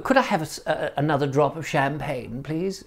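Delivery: lightly voiced genteel guest; posh guest asking. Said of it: "Often people would say".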